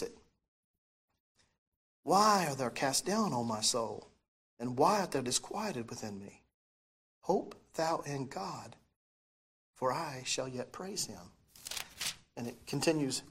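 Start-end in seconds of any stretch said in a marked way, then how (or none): 2.0-11.3 scripture reading. Acted. Reads psalm.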